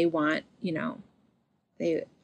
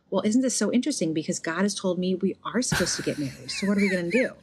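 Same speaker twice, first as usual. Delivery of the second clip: sarcastic; faster than usual. Pretend. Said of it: "Please note my sarcasm".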